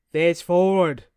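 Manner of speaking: sharp loud barked order; barking. A narrator's reading. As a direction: bark the command. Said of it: "Arnie barks".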